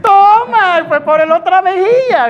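loud, high jeer; punchy ringside "take that"; gleeful taunt. Acted. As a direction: crow over a landed blow. Crows over a verbal slap.

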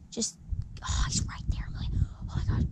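hushed, breathy whisper. Real, not acted. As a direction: whisper so the fish won't spook. Excited hushed fishing moment.

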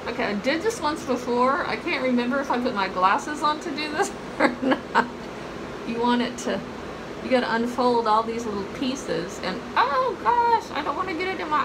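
speaking through sheet mask; wearing a face mask. Real, not acted. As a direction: lips slightly restricted by mask. Seen 1: Wet sheet mask covers her face; mouth opening is cut out.

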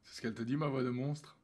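monster voice. Real, not acted. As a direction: rasp it out, exhausted. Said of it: "je suis au bout du rouleau". (voix de monstre épuisée)

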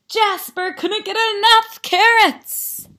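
high, emphatic storybook exclamation; excited narration. A narrator's reading. Narrator tells kids of Jasper's carrot craving, excited. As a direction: punch it up with gleeful emphasis.

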